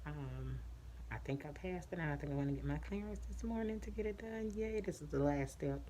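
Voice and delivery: muffled through a face mask; behind mask. Real, not acted. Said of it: "I can't really talk with this mask on".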